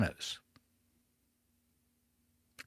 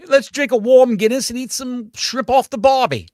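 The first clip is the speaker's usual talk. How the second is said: hammed-up British accent, high and loud; mock British accent; 9 semitones higher, 5 dB louder than usual. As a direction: play a cartoon Englishman, high and loud.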